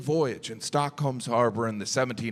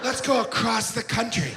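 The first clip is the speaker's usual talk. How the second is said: excited shout; 6 semitones higher than usual. Pretend. Comic acting out a ski run, shouting with glee. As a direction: whoop like you're racing off downhill.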